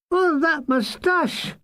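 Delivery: a light hint of helpless giggling; mild laughing cry. Mulgrew mocking the lady's moustache, laughing high. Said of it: "Mulgrew was doubled up in evil laughter".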